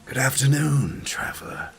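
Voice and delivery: breathy greeting sinking into a near-whisper; mysterious stranger. Acted. Stranger on the bridge greeting a traveler, mysterious and hushed. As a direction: greet like a cryptic wayfarer, hushed after the first words.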